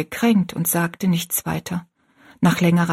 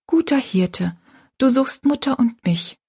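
put-on higher child's prayer, spoken out; child praying aloud; 4 semitones higher than usual. A narrator's reading. Rosalie kneels and prays for the old woman, aloud, higher voice. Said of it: "Rosalie kniete nieder und sagte laut".

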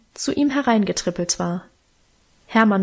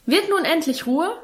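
scolding father; 7 semitones higher than usual. A narrator's reading. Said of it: "schalt Vater in erhöhter Lautstärke".

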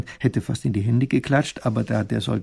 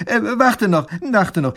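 calling back; 9 semitones higher, 6 dB louder, slower than usual. Acted. Hält ihn zurück.

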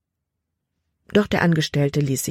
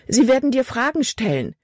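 frightened pleading; 8 semitones higher than usual. A narrator's reading. Frightened girl pleads with father.

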